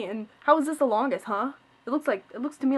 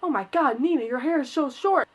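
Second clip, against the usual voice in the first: louder, a hint of a shocked mother; retold shocked mom; 3 semitones higher, 6 dB louder than usual. Mom walking in on the haircut, louder and shocked. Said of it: "she's like".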